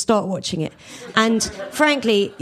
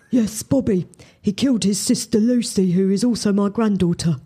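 mild sad Kathy. Acted. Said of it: "Kathy's eyes grew suddenly sad".

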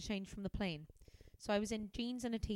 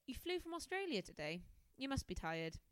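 a bored rereading, no real worry; flat, unconcerned; 4 semitones higher than usual. Shown as a demonstration. Reader retries the line sounding unconcerned. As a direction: say it without concern, FLEW up high then dropping. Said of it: "She didn't sound too concerned".

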